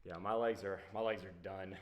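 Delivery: winded after a workout; panting between words; out of breath. Real, not acted. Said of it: "take just a moment to catch my breath".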